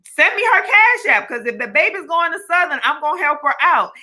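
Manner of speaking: high, fast, eager mock exclaiming; lightly voicing a thrilled sorority sister rushing to help; excited chapter sister. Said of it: "And she was like".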